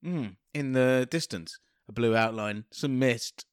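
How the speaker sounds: low, halting, as if seeing a vision; hammed-up mystic scene-setting; mock visionary. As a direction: intone each image slowly, with long pauses. Improvising a visionary cold open.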